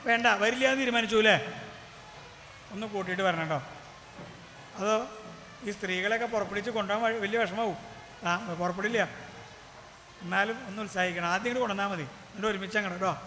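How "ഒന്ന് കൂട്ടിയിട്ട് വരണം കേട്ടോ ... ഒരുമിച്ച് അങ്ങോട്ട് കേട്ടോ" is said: coaxing minister. Acted.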